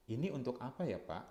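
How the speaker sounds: gentle, genuinely curious asking; sincere polite question. Shown as a demonstration. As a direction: ask "Ini untuk apa ya, Pak?" politely, really wanting to know. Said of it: "Intonasi sudah akan membedakan". (bertanya dengan tulus dan sopan)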